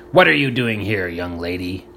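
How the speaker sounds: gruff demand, voice dropping at the end; angry bark. A narrator's reading. Aborn catching Nancy at the shack, gruff demand. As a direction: bark it at the girl caught snooping. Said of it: "a coarse, angry voice barked".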